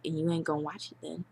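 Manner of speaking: fast ghetto slang voice; street-talk delivery, quick. Retold or imitated. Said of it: "I sound really ghetto there".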